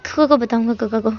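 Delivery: put-on halting, stuttering child, words stuck; nervous boy stammering to his father. Shy son stammers, can't get words out.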